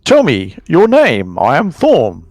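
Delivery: slow, lightly acted formal voice; adventurer introducing himself. Adventurer asking the kobold's name, slow and formal. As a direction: introduce yourself slowly, as to a foreign creature. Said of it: "And he says".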